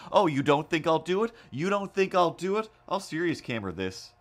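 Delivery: hammed-up all-caps fury; mock angry taunt. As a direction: dare him like a cartoon villain. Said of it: "angrily writing to him, in all caps".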